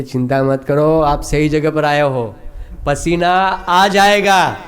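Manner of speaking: assured, slowing to a drawn-out promise; reassuring doctor. Acted. Doctor promising the patient he will sweat, slow assurance. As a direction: reassure firmly, stretching the last words.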